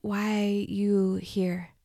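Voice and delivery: slow, gasping words after a cough; out of breath. A narrator's reading. Injured girl with a broken rib asks her captor, gasping. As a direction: force each word out through the pain. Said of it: "I tried to catch my breath".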